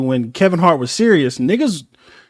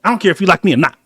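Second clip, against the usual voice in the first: imitating Kevin Hart; 5 dB louder, much faster than usual. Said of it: "he was serious".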